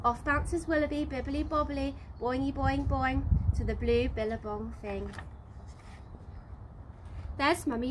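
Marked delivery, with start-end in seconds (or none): none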